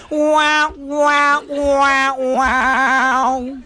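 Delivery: high, loud drawn-out wows; amazed wow. Acted. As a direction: ham up the amazement, each wow slowly falling. Mock amazement after joke.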